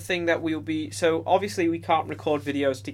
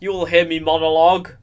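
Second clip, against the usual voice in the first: wrestling promo; 7 dB louder than usual. Pretend. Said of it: "Cut a promo on you".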